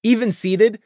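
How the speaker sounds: plain reading voice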